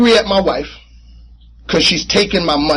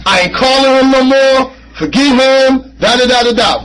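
raised, louder huffy rant; mock angry rant; 7 semitones higher, 4 dB louder than usual. To himself after John walked away, an angry huff. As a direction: sound off like a mad man done with his sponsor. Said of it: "I'm talking".

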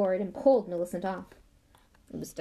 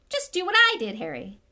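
cheery Lockhart; 10 semitones higher, 8 dB louder than usual. Acted. Lockhart cheerfully instructing Harry.

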